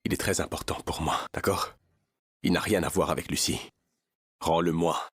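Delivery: low menacing whisper; whispered threat. Acted.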